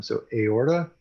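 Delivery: one word at a time, clearly separated; staccato. Shown as a demonstration. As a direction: say each word alone for the class to repeat. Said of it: "one word at a time".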